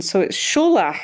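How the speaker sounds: Scholach with a throaty ch; ch at the back of the throat like a bug stuck there; Scottish pronunciation. Shown as a demonstration. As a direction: say Scholach with ch as in loch. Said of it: "that's how you pronounce it".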